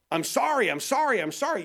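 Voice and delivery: high, repetitive pleading sorry; mock apology. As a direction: rattle off a hollow, over-eager apology. Acting out worldly, tearful apology.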